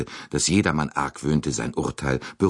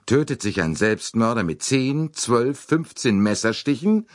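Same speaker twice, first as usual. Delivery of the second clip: cutting; 7 semitones higher than usual. A narrator's reading. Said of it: "fragte er schneidend".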